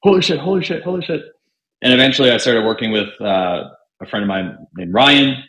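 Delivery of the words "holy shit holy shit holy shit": excited. Retold or imitated. Thrilled at big fee.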